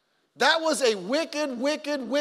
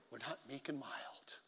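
very soft, low and slow; meek and mild; 8 semitones lower, 19 dB quieter than usual. Acted. Preacher contrasting passion with timid talk, meek and mild. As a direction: shrink to a mild little murmur. Voices meekness against passion.

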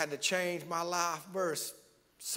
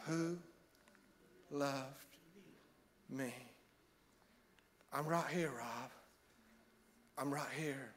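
the voice of God; 3 semitones lower, 5 dB quieter than usual. Acted. God quietly answering the preacher Rob, tender and soft. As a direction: speak gently as the Lord. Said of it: "He said".

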